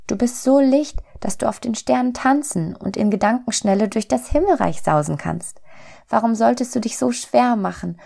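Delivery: high, urgent little-soul voice; astonished little soul. A narrator's reading. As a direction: plead in bewilderment, keeping the pitch up. Little soul questions friendly soul.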